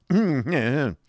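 deprecating little "hm-hm"; mildly deprecating hum. A narrator's reading. Schoolmaster to his wife after her outburst, mild deprecating hum. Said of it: "as if in mild deprecation of this outbreak".

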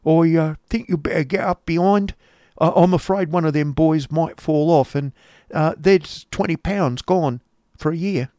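high rustic voice with halting ums; coarse schoolmaster. Acted. Schoolmaster worrying over boys falling off, coarse. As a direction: stumble along in a high, coarse voice. Voicing Squeers.

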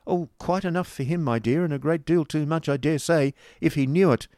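high-pitched, placating schoolmaster; smooth the wife over; pacifying. A narrator's reading. Schoolmaster soothing his annoyed wife, pacifying. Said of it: "Squeers in a pacific tone".

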